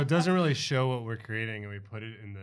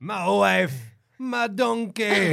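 slow, higher ogre voice; ogre's tender reunion; 8 semitones higher, 4 dB louder, slower than usual. Acted. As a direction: savor each word. Player voicing Shrek reunion.

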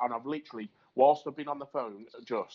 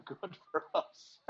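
laughing; 8 semitones higher, 4 dB quieter, slower than usual. Real, not acted. Laughs mid-sentence.

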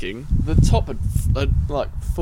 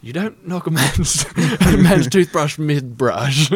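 indignant; 5 dB louder, slower than usual. Retold or imitated. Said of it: "Aaron says".

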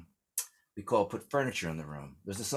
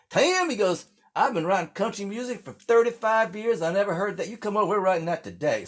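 high and louder, thrilled Southern writer; excited songwriter; 11 semitones higher, 6 dB louder than usual. Retold or imitated. Songwriter Buddy hearing the story, high excited voice. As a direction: burst out like a hit just landed. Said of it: "He's like".

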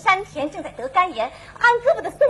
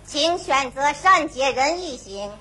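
robotic prompt; 4 semitones lower, slower than usual. Acted. Robot announces mode.

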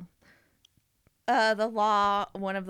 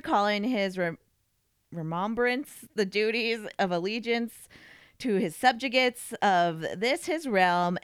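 stiff, stumbling formal reading. Real, not acted. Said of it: "do a dramatic reading".

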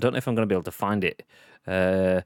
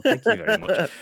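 laughing; 7 semitones higher, 3 dB louder than usual. Real, not acted. Laughing thanks.

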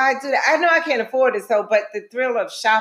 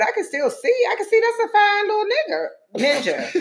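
laughing tease; 10 semitones higher than usual. Real, not acted. Teasing admiration, laughing.

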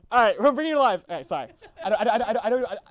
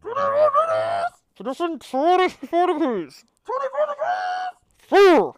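high, slow, loud commands; shouted artillery orders; 9 semitones higher, 5 dB louder, slower than usual. Acted. Officer redoing the fire orders, drawn-out acted shouting. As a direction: bellow each order to the gun crew. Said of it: "I'll do my fire again".

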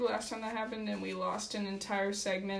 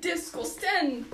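mock disgust; 5 semitones higher, slower than usual. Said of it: "Why do you say it so badly?".

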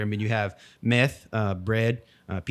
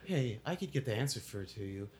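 much softer assistant voice; Alexa voice; 4 dB quieter than usual. Pretend. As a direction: speak like a smart speaker. Playing Alexa answering.

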